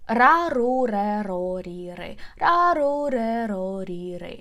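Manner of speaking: Ra, ru, re, ro, ri, re rattled off quickly. Shown as a demonstration. Teacher speeds up the r syllables. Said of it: "practice to pronounce them faster".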